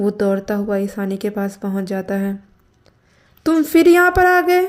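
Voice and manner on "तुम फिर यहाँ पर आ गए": shrill, very high, loud angry shout. Approached by someone calling her name, she answers, shouting. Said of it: "तुम चिल्ला क्यों रही हो?".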